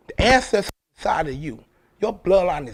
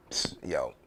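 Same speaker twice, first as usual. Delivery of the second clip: hushed, breathy psst to the listener; secret whisper; 9 dB quieter than usual. Acted. Leaning in to tell a secret.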